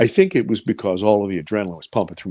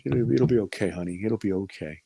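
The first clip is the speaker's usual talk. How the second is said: tender comfort; 3 semitones lower, 6 dB quieter than usual. Retold or imitated. Mother comforting hurt son.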